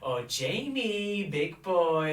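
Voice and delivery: mock Asian American accent, high and slow; fake Asian American accent. Lady boys on the beach calling Jamie, mock Asian American accent. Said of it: "fake Asian American accents".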